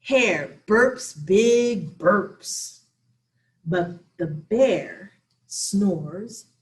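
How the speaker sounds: put-on lively read-aloud for children; story reading. Teacher reading a picture book to children, lively. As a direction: read it to little ones, bright and playful.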